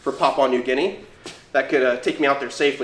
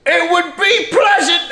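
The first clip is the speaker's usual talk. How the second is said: slow, high mock British accent; hammed-up English gentleman accent; posh British accent; 14 semitones higher, 5 dB louder, slower than usual. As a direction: put on a plummy British accent. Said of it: "what am I doing that accent for?".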